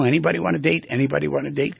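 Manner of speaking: lightly voiced cardinal calling for a mate; a hint of a courting bird. Cardinal calling for girls, lightly voiced cardinal voice. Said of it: "Cardinal voice".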